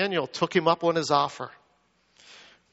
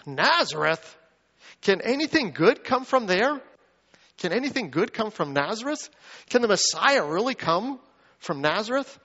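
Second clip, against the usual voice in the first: incredulous; 4 semitones higher than usual. Acted. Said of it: "I love Nathanael's response".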